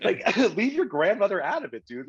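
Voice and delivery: laughing through a self-scold. Real, not acted. Comedian laughing at herself to podcast hosts, laughing. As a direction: giggle it out, scolding yourself.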